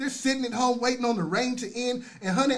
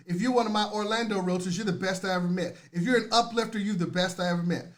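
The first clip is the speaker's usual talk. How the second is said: normal talking voice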